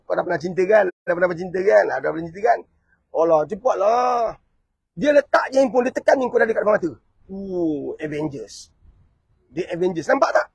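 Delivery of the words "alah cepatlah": a drawn-out, louder call to hurry up; impatient call. Acted. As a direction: call out slowly, losing patience. Impatient voiced caller.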